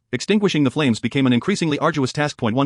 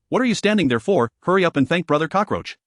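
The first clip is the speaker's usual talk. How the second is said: barking; 3 semitones higher than usual. Acted.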